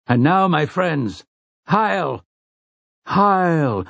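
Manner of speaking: high ringing war cry; battle cry. Acted. The last gunslingers cry out high before the charge. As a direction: let the cry ring out high. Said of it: "the last dozen cry".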